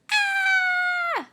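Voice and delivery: "Ah!" said high and loud, open short a; letter A sound. Shown as a demonstration. Teacher shows the kids the sound of A. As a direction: shout the short a as "Ah!". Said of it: "the A says".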